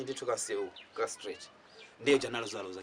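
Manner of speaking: ordinary talk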